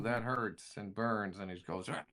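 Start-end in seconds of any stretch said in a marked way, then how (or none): 1.9-2.0 brief muffled creature cry of pain; stifled monster yelp. Acted. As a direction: yelp as if through bandages. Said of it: "It's still muffled".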